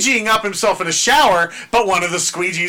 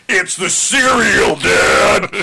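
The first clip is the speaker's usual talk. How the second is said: put-on slow, louder yelling child; shouting kid; 5 dB louder, much slower than usual. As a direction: yell it at dad like a caught kid.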